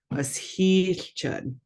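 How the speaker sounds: slow "heelchud", lingering on the heel part; drawn-out sound. Shown as a demonstration. Teacher repeating the word for learners, drawn out. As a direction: draw out the double letter in "heelchud" a bit. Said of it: "gonna draw it out just a little bit".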